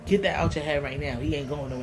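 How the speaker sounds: low, softening voice of a firm mother; retold motherly reassurance. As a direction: reassure your child, low and steady, as retold. Mother comforts crying daughter.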